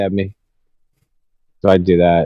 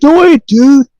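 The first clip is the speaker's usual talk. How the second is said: much higher, stunned surfer-dude disbelief; Keanu Reeves impression; 13 semitones higher, 5 dB louder than usual. Friend hears the White House news, awed Keanu dude voice. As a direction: play it as a dazed dude who can't believe it. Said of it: "He was like Keanu Reeves about it".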